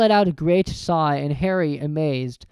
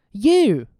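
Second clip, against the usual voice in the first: shocked, louder exclamation; gasped; 6 semitones higher, 6 dB louder than usual. A narrator's reading. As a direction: gasp in disbelief. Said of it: "gasped Harry".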